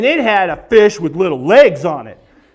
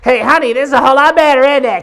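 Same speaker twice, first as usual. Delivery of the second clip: louder, muffled talk through a mask; 3 semitones higher, 4 dB louder, faster than usual. Retold or imitated. Husband talks to wife wearing CPAP mask, muffled. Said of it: "it's like".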